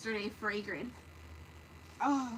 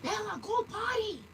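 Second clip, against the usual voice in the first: high, louder call across the yard; high pitched exasperated call; 11 semitones higher, 6 dB louder, slower than usual. Real, not acted. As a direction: yell the command to the dog. Calling dog from distance.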